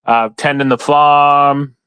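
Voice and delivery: hammed-up Southern farmer, stretched out. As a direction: spin a yarn like a Southern gentleman farmer. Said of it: "I can't keep doing the voice too long".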